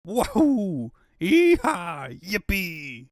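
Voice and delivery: loud triumphant whooping; gleeful whoops. Acted. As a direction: whoop with glee at the news. Robotnik celebrating Sonic's death.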